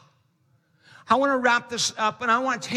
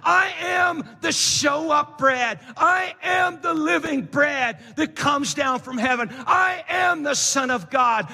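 preached Jesus voice; 3 semitones higher than usual. Retold or imitated. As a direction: proclaim it like Jesus himself. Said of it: "It's like Jesus was saying".

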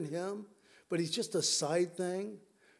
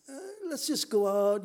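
high, loud, offhand mock; mock casual; 10 semitones higher, 5 dB louder than usual. Preacher mocking what Jesus didn't say, casual. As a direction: toss it off lazily.

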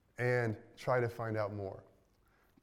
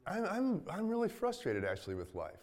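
half-acted exasperation building up, then dropping off; frustrated rant. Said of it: "is what a friend of mine, mine says".

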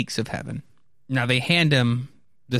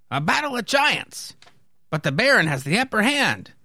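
high-pitched soldier voice; onlooking soldier; 10 semitones higher than usual. Acted. Onlooking soldier comments on duel.

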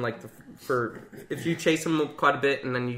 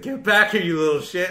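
voice-changer Jason; 5 semitones higher, 5 dB louder than usual. Retold or imitated. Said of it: "had a voice changer".

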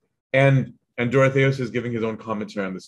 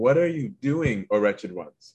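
worked-up reproach. Retold or imitated. Dorotheus scolding Adam and Eve, mildly worked-up reproach. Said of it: "Dorotheus gets worked up".

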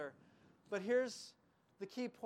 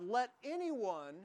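loud voice to the crowd; 2 semitones higher than usual. Acted. Jesus calling out to the festival crowd, loud and inviting. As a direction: call out the invitation to everyone. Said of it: "said in a loud voice to the crowd".

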